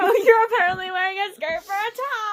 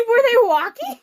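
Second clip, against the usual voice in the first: laughing; 8 dB louder than usual. Real, not acted.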